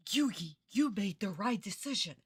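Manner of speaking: a lightly put-on cartoon voice, mocking the line; mocking dub quote. Streamer mocking the dub's line to Yugi, lightly voiced. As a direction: parrot the dub's cheesy line with scorn.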